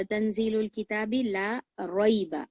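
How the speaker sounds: slow, measured Quran recitation; slow tajweed reading; Quranic recitation. Shown as a demonstration. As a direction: recite each syllable deliberately. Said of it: "रॉ के ऊपर, जबर और पेश रहेगा तो रॉ को मोटा पढ़ेंगे".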